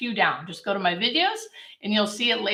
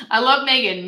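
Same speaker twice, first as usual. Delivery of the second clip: laughing; 4 semitones higher, 4 dB louder than usual. Real, not acted. Laughing after joke.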